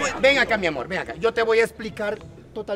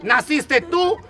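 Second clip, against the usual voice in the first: louder, fast, blunt truth; loud blunt retelling; 7 dB louder than usual. Retold or imitated. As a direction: blurt it out loudly. (versión cruda y fuerte, rápida)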